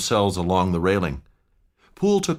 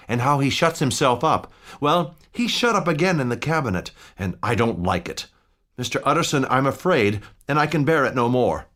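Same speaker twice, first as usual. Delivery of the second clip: higher, worried servant's voice; fretful butler confessing his fear; anxious old butler; 5 semitones higher than usual. Acted. Poole telling the lawyer he is afraid, anxious butler voice.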